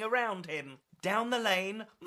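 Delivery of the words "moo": long cow moo; drawn-out imitation moo. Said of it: "mooing and baaing and clucking".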